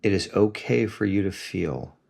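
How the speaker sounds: soft, unhurried guiding voice; calm meditation guidance; guided meditation. Acted. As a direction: gently lead a listener into the feeling, leaving long pauses.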